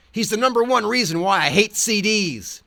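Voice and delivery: high and loud mock howl, punching number one. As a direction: howl the grudge at full volume. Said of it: "The Ledge howls".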